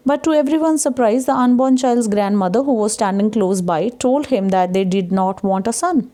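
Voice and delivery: reading a textbook aloud. Acted. Teacher reads of the grandmother's surprise reply, slow read-aloud. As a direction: read the English line slowly, phrase by phrase.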